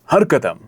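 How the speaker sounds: "हर कदम" set apart by a pause; pause after the phrase. Shown as a demonstration. Coach showing the student how to use pauses, deliberate phrasing. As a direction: say "हर कदम", then hold before going on. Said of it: "pause का use कीजिए".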